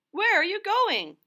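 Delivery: a curious little puffin calling out; high squeaky bird question; Puffin Muffin's voice. Acted. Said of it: "asked Puffin Muffin".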